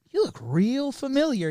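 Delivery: put-on Boston accent with swooping pitch. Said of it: "Oh, the Boston one?".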